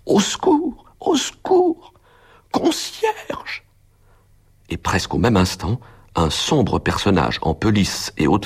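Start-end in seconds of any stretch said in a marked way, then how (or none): 0.1-3.6 very high, piercing screams for help; a far-off desperate call to the concierge; heartrending cry for help. A narrator's reading. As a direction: shriek it from upstairs in terror. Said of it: "J'entendis un cri déchirant".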